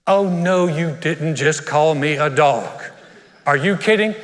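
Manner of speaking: sassy, indignant disbelief; mock offense. Preacher playing an insulted churchgoer, mock indignant. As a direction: act insulted, slowing on the accusation. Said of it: "offended reaction acted out".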